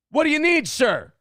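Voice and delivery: high, sugary put-on politeness; mock polite. Greeting the caller at the gym, mock polite. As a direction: play it syrupy sweet to lure him in. Answering the prank call sweetly.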